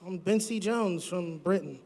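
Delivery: put-on a light, hammy British-Australian accent. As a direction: play it like a bloke from Britain. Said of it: "I thought I got Australia".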